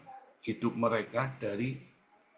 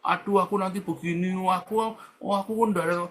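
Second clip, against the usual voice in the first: mock complaining; 6 semitones higher than usual. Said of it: "Atau kamu ngeluh".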